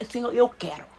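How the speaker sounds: calm, decided "eu quero"; firm declaration. Shown as a demonstration. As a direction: claim it with quiet certainty. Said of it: "Mas sabe falar assim".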